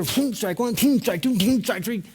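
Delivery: rapid-fire pitch sound effects; imitated pitches. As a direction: whoosh each pitch past, then count it. Acting out three pitches whizzing by.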